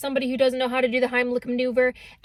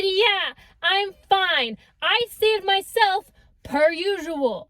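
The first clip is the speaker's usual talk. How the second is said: higher, slow, breezy brush-off; 5 semitones higher, much slower than usual. Retold or imitated. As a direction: act totally fine. Breezy brush-off while choking.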